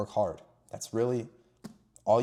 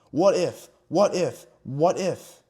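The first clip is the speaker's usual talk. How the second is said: lightly voiced nagging devil, a bit higher and louder; the devil seeding doubt in the listener, lightly voiced; a hint of the devil's voice; 3 semitones higher, 4 dB louder, slower than usual. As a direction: tempt with "What if?" like a whispering doubt in the ear. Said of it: "that is the voice of the devil".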